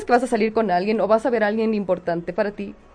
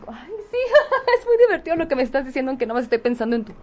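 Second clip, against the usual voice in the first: flirty giggling; faster than usual. Retold or imitated. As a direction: laugh coyly while flirting. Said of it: "el cabellito y como que tocas".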